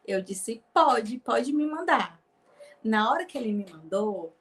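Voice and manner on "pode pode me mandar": louder, slow eager yes. Retold or imitated. Eager retold answer.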